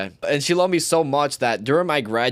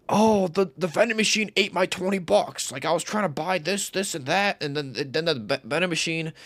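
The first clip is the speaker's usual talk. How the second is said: higher-pitched, put-on tale of woe; mock pleading complaint; 5 semitones higher than usual. Student conning the lunch lady for money, mock plaintive. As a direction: plead your case in a raised, hammed-up voice.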